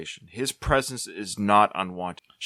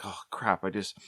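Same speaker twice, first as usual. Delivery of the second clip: softly muttered imitation of embarrassment; shy retreat; 7 dB quieter than usual. Man voicing shy Rocky after a rejection, shyly backing off. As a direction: shrink back, voice dropping away softly. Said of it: "I think he's really shy".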